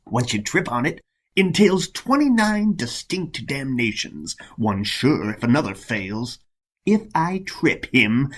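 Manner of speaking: theatrical verse, pitch rising and falling; jealous monk, scheming. Acted. Monk schemes to send rival to hell, spiteful relish. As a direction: plot damnation with spiteful relish.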